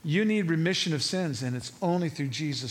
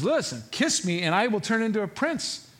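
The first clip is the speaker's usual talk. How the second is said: lightly acted pleading frog; mild insistence; 5 semitones higher than usual. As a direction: press the offer a second time. Frog's second, more insistent request.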